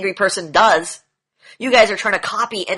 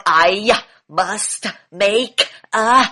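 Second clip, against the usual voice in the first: stern and strong; much slower than usual. Retold or imitated. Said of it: "talking loudly and he's strong".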